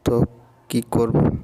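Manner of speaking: hesitant stutter on তো, তো, তো; stammering. Acted. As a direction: fumble the start nervously. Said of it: "আমতা আমতা করে বলি".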